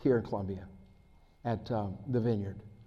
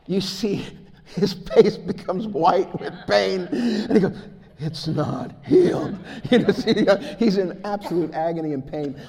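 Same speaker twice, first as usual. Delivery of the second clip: laughing; 6 semitones higher, 7 dB louder than usual. Real, not acted. Laughing while telling of David's pain.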